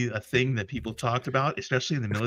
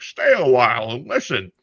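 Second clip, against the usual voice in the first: put-on Diablo old man; 7 dB louder than usual. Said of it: "the dude from Diablo".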